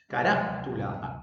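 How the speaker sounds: "Carátula" slowed, weight held on RÁ; ca-RÁ... tula, pointing out the accent in "Carátula"; stress on RÁ. Shown as a demonstration. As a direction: lean on RÁ, pause, finish "Carátula". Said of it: "ahí se encuentra el acento".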